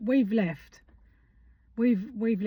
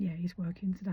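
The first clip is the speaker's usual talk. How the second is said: imitated receptionist whisper; 6 dB quieter than usual. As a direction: hush it like a secret. Receptionist confides doctor is in.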